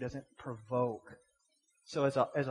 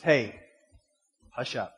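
sharp louder hey, then hush up; curt hushing; 2 semitones lower, 4 dB louder, slower than usual. Retold or imitated. Man telling noisy people behind him off, curt. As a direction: imitate a moviegoer's curt shushing. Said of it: "That's the way he said it".

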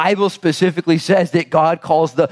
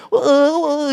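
surprised whoa; 13 semitones higher than usual. Acted. Reacting to Gideon's fear.

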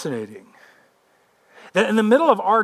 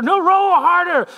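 high, loud, drawn-out command; insistent yell, overruling the protest; 12 semitones higher, 5 dB louder than usual. Acted. Peter to an exhausted rower in the storm, yelling. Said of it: "Peter's yelling".

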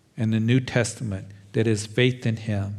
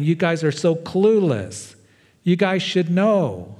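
frustrated teacher; 5 semitones higher than usual. Pretend. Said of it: "He's not saying".

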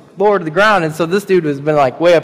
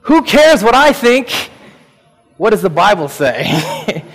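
a lively, amused retelling of the pastor's line; emphatic quote. Retold or imitated. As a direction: quote him with gusto. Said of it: "so I'm gonna adopt this".

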